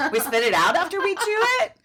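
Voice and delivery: high, squealed through laughter; laughing incredulity. Real, not acted. Host jokes about a new diet, laughing hard. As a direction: ask it while cracking up.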